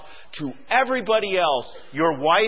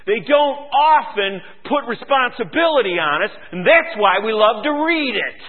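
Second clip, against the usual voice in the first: raised-pitch pulpit exhortation; forceful preaching; 7 semitones higher, 5 dB louder than usual. Real, not acted. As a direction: urge the congregation firmly.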